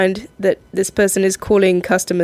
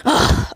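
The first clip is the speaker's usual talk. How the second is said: annoyed ugh. Retold or imitated. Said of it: "this person got upset".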